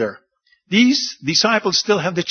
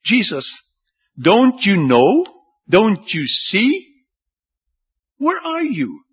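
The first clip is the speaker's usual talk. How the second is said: sarcastic disbelief; 4 semitones higher than usual. Retold or imitated. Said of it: "they say it with a lot of sarcasm".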